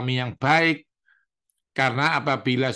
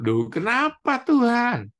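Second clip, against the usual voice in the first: high, startled why-me; surprised protest; 10 semitones higher than usual. Retold or imitated. Preacher answering God's rebuke, startled and much higher. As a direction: jump up in pitch, taken aback. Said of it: "Tuhan ngasih tahu".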